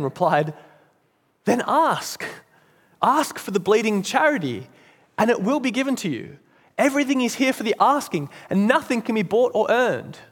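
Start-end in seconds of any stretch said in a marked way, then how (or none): 1.4-10.2 higher-pitched earnest appeal; acted, earnest plea in a raised pitch; urging. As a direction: urge him on, pitch lifted throughout. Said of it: "The man in heaven urged him".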